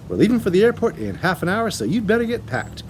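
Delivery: loud, impatient brusque dad; bossy father. A narrator's reading. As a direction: hurry the girl along, annoyed. Mr Wormwood barking orders.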